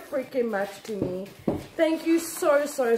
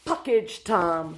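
low mock announcer; 8 semitones lower, much slower than usual. Low answering voice.

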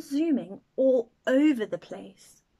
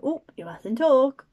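stern teacher; 7 dB louder than usual. Acted. Teacher scolding class.

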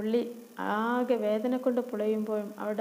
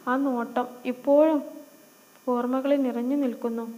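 put-on louder, dreamy girl musing to God; lovestruck girl praying; 4 dB louder than usual. Noorin asks God about the handsome boy, swooning.

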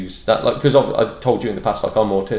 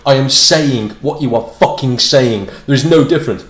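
exasperated insistence; 3 dB louder than usual. Retold or imitated. Exasperated learner in retold argument.

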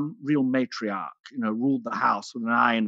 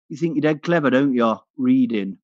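louder sneering taunt from a bus bully; mocking bully taunt; 4 dB louder than usual. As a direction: taunt her as a rough kid would. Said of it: "Like that".

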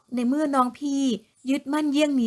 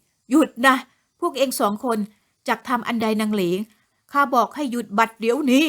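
furious command. Acted. The lord catches his wives beating Leng, furious command. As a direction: command them to stop, enraged. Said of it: "น้ำเสียงหลวงราชสักโกรธจัด".

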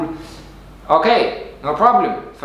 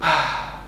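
long relaxed sigh out; passive exhale sigh; 5 dB quieter than usual. Shown as a demonstration. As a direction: let the air fall out. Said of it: "passively exhale".

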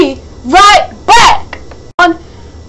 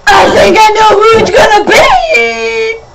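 excited shout; 4 semitones higher than usual. Real, not acted.

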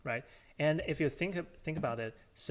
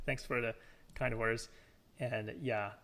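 tired voice. Real, not acted. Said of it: "apologize for my tired voice".

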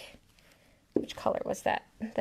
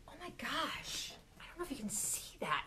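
much softer, almost under the breath; soft, awed aside to the viewers; hushed awe; 2 semitones higher, 11 dB quieter, faster than usual. Real, not acted. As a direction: murmur it as if afraid to break the spell. Hushed awe at glistening ink.

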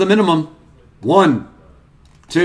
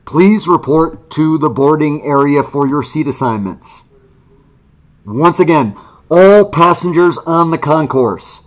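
over the intercom; 4 semitones lower than usual. Pretend. Mock airport gate announcement.

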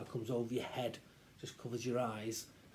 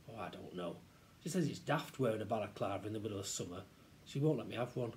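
put-on glum boy; 3 semitones lower, faster than usual. Child explains mum's refusal to friend, glum. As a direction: answer with resignation.

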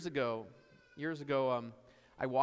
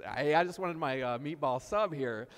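nervous backing-off friend; 5 dB louder than usual. Retold or imitated. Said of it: "his friend is kinda just, like, backing away".

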